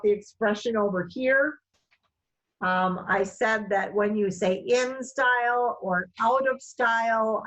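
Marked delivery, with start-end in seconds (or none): 4.6-5.8 slow, careful "in style"; slowed, clearly spoken. Shown as a demonstration. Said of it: "was slowing down and". 6.2-7.4 deliberate, distinct "out of style"; slowed, clearly spoken. Shown as a demonstration. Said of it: "clearly speaking each of those words".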